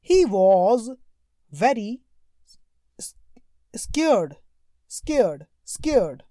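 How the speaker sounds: drawn-out, fearful read of scared; expressive reading. Shown as a demonstration. Teacher showing students how to read a scared line. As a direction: read it slowly as if frightened. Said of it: "देखो कैसे पढ़ना है".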